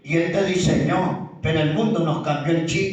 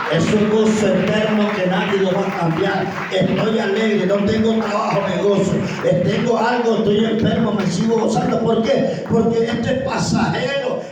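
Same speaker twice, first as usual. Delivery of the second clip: raised, insistent pulpit testimony; fervent preaching; 4 dB louder than usual. Real, not acted. Preacher testifies of eternal joy despite having nothing, fervent preaching. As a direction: press on phrase after phrase with fervour.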